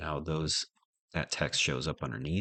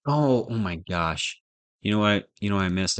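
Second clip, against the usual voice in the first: sudden realization; 4 semitones higher, 9 dB louder than usual. Real, not acted. Coder discovering the missing comma, loud and incredulous. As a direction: stretch out the shock of finding the bug.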